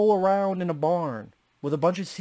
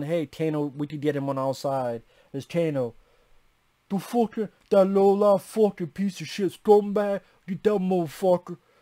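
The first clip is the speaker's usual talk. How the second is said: put-on Brooklyn accent. Asking friends whether a villain is from Brooklyn, mimicking his Brooklyn accent. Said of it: "is Cabal from Brooklyn?".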